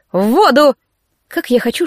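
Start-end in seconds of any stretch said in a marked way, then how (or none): 0.1-0.8 higher-pitched, mildly barked order; barked command. A narrator's reading. Trainer ordering the cadet into the sea, mild bark. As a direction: send them off with a firm bark. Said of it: "рявкнул тренер".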